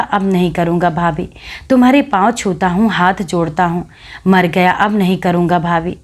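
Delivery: lightly nasal mocking whimper; nasal mock whine. Widow mocking the boy's pleading, lightly nasal whine. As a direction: mimic a boy begging, through the nose. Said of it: "मुंह बनाकर नाक से आवाज़ निकालकर".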